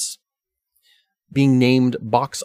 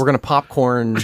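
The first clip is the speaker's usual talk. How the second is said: excited shout; 2 semitones higher, 5 dB louder than usual. Real, not acted. Announces the silly word game.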